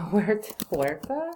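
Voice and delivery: trying out a Spanish accent on Huerta; Spanish accent attempt. Real, not acted. Teacher tests her Spanish accent on students. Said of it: "How's my Spanish accent?".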